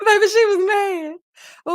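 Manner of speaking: high slow laugh into the words. Real, not acted. Telling viewers about the angry wife, laughing slowly. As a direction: savor it through a laugh.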